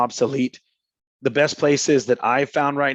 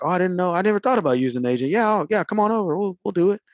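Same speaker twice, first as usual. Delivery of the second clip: imitating a delighted seller; 6 semitones higher, faster than usual. Easy seller agrees happily.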